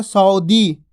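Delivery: सऊदी said slowly, separate स and ऊ. Shown as a demonstration. Teacher contrasting the wrong reading. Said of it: "ई की मात्रा लग जाती सऊदी".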